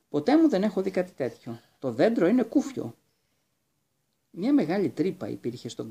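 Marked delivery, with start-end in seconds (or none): 0.1-2.9 higher and louder, calling down from the tree; excited call. Acted. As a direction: call out amazed at what she found. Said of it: "τους φώναξε". (φωνάζει ενθουσιασμένη, πιο ψηλά και δυνατά)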